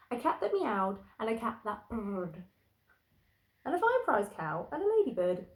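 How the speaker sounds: put-on lilting read-aloud to children; bouncy bedtime-story reader; picture-book narration. A narrator's reading. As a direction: read the rhyme with a sing-song lilt.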